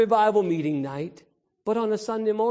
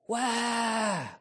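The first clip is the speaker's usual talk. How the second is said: mock fussy baby cry; 4 semitones higher, 4 dB quieter than usual. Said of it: "now he has a mess".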